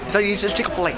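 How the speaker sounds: numb lip, drooling slightly; numb from the dentist. Real, not acted. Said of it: "Can't even close my lip".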